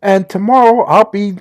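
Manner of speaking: a hint of bubbly Valley Girl; lightly voiced sorority girl introduction. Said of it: "my Valley Girl voice".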